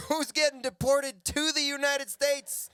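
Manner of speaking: slow, high, loud incredulity; amazed Mexican friends. Acted. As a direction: ask it in hammed-up astonishment. Mexican friends react to deportation story.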